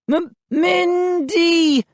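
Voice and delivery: slow, stammering weak moan. A narrator's reading. Slow faint moan. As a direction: Joe fakes being hurt, moaning. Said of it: "I moaned".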